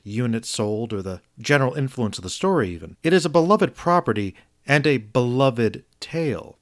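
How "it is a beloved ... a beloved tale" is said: deliberate stress on "beloved" each time; emphasis on beloved. Real, not acted. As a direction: lean on the word "beloved" both times. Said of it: "want to emphasize the word beloved".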